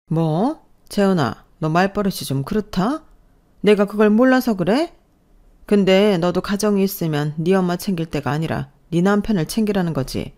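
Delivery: mildly indignant elder scolding; lightly voiced mother-in-law putting her in her place; affronted mother-in-law. (못마땅해하며 나무라는 시어머니)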